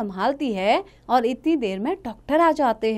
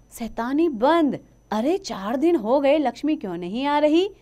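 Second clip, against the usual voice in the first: teacher's voice; 5 semitones higher than usual. Acted. Teacher hushes the noisy class, lightly stern. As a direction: settle the class down.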